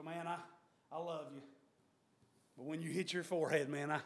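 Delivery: soft. Acted. False loving friend quoted.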